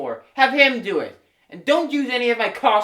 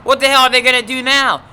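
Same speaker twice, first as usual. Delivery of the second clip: angry; 4 semitones higher, 5 dB louder than usual. Acted. Star furious at being dropped.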